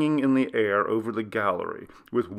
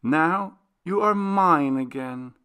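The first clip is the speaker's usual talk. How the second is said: heartfelt joy; 8 semitones higher than usual. Acted. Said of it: "said Clara, from the very depth of her soul".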